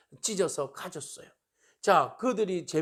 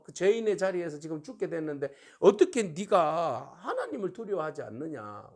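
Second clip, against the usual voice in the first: raised, higher-pitched retold reproach; scolding rebuke; 3 semitones higher, 4 dB louder than usual. One robber rebuking the other, scolding. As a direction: take him to task, acting out the scolding. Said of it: "그 사람을 꾸짖습니다".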